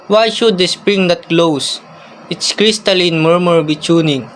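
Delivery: measured recital in short, paused phrases; formal, mildly lilting verse reading; poem recitation. Acted. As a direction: recite it line by line, evenly.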